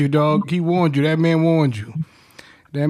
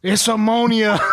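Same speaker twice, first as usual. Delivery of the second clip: laughing retold warning. Retelling brother's warning to friend, laughing. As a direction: warn through a laugh.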